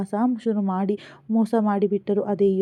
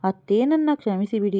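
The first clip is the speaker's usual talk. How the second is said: louder, pleading through tears; raised, tearful apology to mother-in-law; tearful plea; 2 semitones higher, 4 dB louder than usual. Acted. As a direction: beg forgiveness, close to crying. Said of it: "ಕಣ್ಣೀರಿಡುತ್ತಿದ್ದ ಸೊಸೆಯ".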